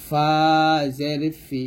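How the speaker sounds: thin ফা from teeth on the lip; light faa demonstration. Shown as a demonstration. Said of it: "নিচে ঠোঁটের পেটের সঙ্গে লাগিয়ে ফাটা পাতলা উচ্চারণ করব".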